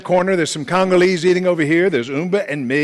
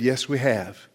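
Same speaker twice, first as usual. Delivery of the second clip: quiet, unhurried and softer; very calm; 5 semitones lower, 7 dB quieter, slower than usual. Retold or imitated. Friend calmly agreeing they were discovered, quiet and composed. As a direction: answer calmly, no alarm at all. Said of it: "Umba very calmly said".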